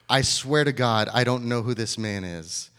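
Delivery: loud, emphatic mock oath; acted sworn denial. Peter swears he doesn't know Jesus, loud insistent oath. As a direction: act out swearing it, hitting the first words hard. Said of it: "invoke a curse on himself and to swear".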